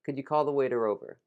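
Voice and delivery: "could you" blended into a quick "could ya"; reduced "could you". Shown as a demonstration. Teacher modelling a sentence to repeat, "could you" said as "could ya". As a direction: run "could you" together, brisk and connected. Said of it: "for you to bring together".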